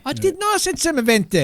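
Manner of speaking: high, indignant protest; squeaky denial. Real, not acted. Protesting a pronunciation correction.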